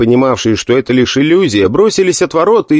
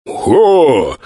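forceful exhale; 3 semitones higher than usual. Acted. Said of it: "с силой выдохнул Куват".

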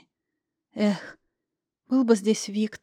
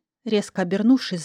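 ordinary delivery

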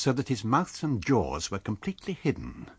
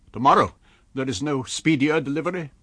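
surprised; 5 semitones higher, 7 dB louder than usual. A narrator's reading. Stranger's disappointed surprise.

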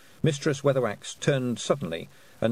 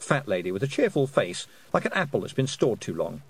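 plain reading voice

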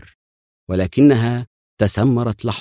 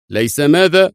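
higher and louder, taken aback; surprised exclamation; 8 semitones higher, 5 dB louder than usual. A narrator's reading. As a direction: blurt it out in disbelief. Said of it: "صاح وزير الدفاع الإسرائيلي في دهشة".

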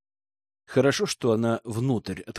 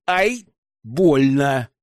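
yelp of pain; much slower than usual. A narrator's reading. Hero hurts his fist.

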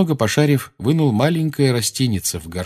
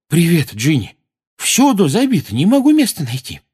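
put-on flustered boy; 8 semitones higher, 5 dB louder than usual. Neville voiced, struggling with luggage.

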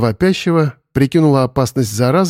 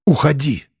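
firm dismissal. A narrator's reading. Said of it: "решительно развернула плечи".

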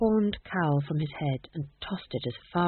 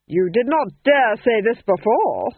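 accusing lady; 4 semitones higher, 7 dB louder, slower than usual. Acted. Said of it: "said Lady Felmont".

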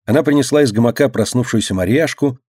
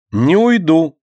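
stubborn; 6 semitones higher, 3 dB louder, slower than usual. A narrator's reading. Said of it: "заупрямилась Катя".

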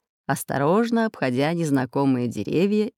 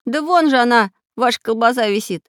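higher, lightly voiced boy; boy pointing it out; 7 semitones higher, 4 dB louder than usual. Boy shows the robbers the sausage, lightly voiced. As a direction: point it out cheerfully. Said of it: "сказал Чижик".

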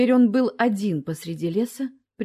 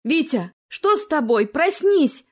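worried; 6 semitones higher, 4 dB louder than usual. A narrator's reading. Wife wakes him worriedly.

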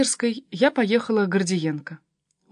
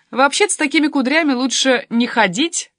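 higher, louder teasing without real laughter; mock amusement; 5 semitones higher, 6 dB louder than usual. A narrator's reading. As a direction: tease your mum, lightly amused. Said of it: "заржала Полька". (насмешливо, повыше)

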